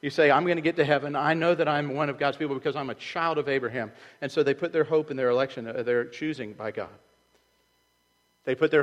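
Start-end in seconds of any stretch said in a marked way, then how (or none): 0.0-3.9 challenging. Retold or imitated. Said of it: "he goes back and he says".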